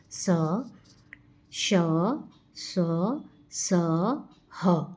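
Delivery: स, श and ह pushed out with audible breath, one at a time, with pauses; breathy fricative demo. Shown as a demonstration. Teacher demonstrating the hot air of the fricatives, breathy. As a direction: show the warm air on each hissing letter. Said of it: "जैसे कि मैं pronunciation कर रही हूँ".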